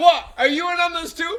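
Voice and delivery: accusing shout, very high, very loud, shrill. Retelling how Tori yells at the mail person: imitating Tori yelling. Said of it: "Tori starts yelling at him".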